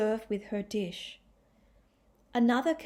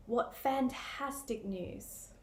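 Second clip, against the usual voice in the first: slow, drawn-out dry fantastic; sarcastic; 3 semitones higher, 3 dB quieter, slower than usual. Shown as a demonstration. Teacher showing exaggerated sarcasm, slow and dry. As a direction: stretch fantastic to mock it. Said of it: "I say".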